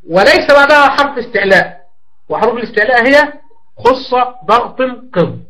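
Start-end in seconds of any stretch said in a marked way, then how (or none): none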